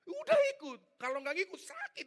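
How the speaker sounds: high, loud barked order; shouted command. Retold or imitated. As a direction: snap the order like a stern senior. Senior ox commanding junior.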